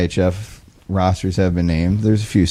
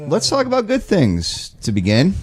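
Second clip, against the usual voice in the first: hyped announcer; 13 semitones higher than usual. Acted. Hyped show-host intro.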